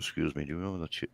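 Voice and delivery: hushed, quick imitation of a whisperer; retold whisper. Girl sidling up to him at the game, mock whisper. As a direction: murmur it low and fast, as if into an ear. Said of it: "like, whispers in my ear".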